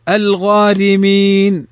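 slow الغارمين, light r and long vowels; thin ra. Shown as a demonstration. Teacher recites الغارمين as example, thin ra. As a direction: draw out الغارمين, r kept thin. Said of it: "رققت نحو".

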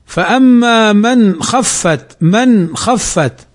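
very slow, drawn-out من خفت; slow Quran recitation. Shown as a demonstration. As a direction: stretch each word as in tajweed. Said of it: "كقوله تعالى". (تلاوة بطيئة جدا ممدودة)

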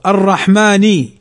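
الرحماني with the nun voiced as "ni"; nun with kasra. Shown as a demonstration. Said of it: "الرحمن النون مكسورة". (إظهار كسرة النون في الرحماني)

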